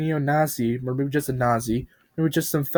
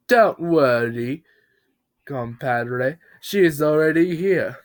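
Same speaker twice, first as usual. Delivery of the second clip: sly reassurance; 3 semitones higher, 3 dB louder, slower than usual. Acted. Bob's sinister slow reply.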